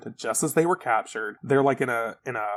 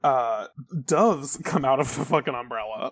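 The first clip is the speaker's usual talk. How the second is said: ordinary talk, nothing marked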